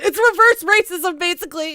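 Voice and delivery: loud, high mocking outburst; sarcastic exclamation. Real, not acted. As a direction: throw it out with scorn. Reactor mocking the claim.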